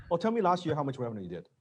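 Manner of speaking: quick, breezy, no big deal; casual confident ask. Shown as a demonstration. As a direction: ask it like chatting about the bill.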